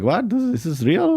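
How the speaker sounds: high, incredulous retold reaction; stunned disbelief. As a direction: rise sharply in mock bewilderment. Retelling shock at being thrown off.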